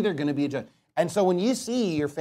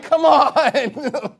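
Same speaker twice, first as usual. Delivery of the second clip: impatient whine; 8 semitones higher, 5 dB louder than usual. Pretend. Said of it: "they're still like".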